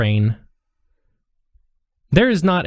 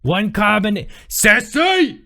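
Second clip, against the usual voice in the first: higher call out to the back; calling to the kitchen; 8 semitones higher, slower than usual. Acted. Waitress calls the order back to the kitchen, higher. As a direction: sing out the order to the cook.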